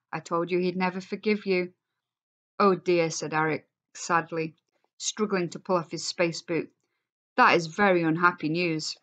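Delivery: expressive read-aloud to a class; story reading. A narrator's reading. Teacher reading the class novel aloud, expressive.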